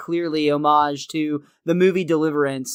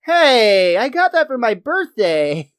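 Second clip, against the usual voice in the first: put-on higher, louder protest from a boy; protesting kid; 5 semitones higher, 3 dB louder, slower than usual. Flanders son protests at Homer tossing his birthday gift, protesting. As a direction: call out in a put-on kid's complaint. Voices boy whose Walkman was thrown.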